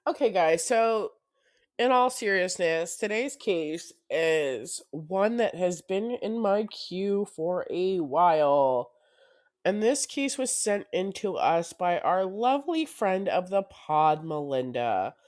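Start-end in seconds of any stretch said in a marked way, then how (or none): 3.0-11.7 slow, serious case intro; true crime narrator. Real, not acted.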